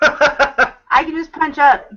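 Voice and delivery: laughing. Real, not acted. Jokes while laughing.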